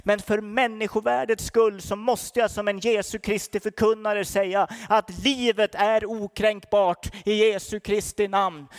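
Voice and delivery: ordinary delivery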